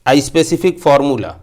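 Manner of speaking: reading the board out word by word, slowly; slow, spaced-out dictation of a definition. Shown as a demonstration. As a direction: dictate it slowly so the class can copy. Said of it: "देखिए हमने लिखा है यहाँ".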